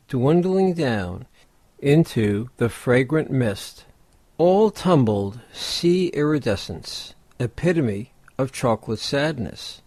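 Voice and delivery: measured poem recital with pauses between phrases; poetry reading. Acted. Host reading the poem Topaz to podcast listeners, measured poetry reading. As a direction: recite it line by line, letting each image settle.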